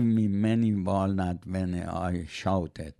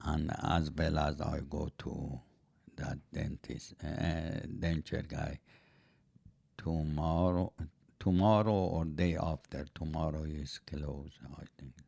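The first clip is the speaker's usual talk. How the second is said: low, soft, drifting answer; sleepy-sounding; 5 semitones lower, 6 dB quieter than usual. Real, not acted. Elderly denture wearer telling the host about repairs, sleepily. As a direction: sound like you're nodding off. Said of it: "You sound like you're falling asleep".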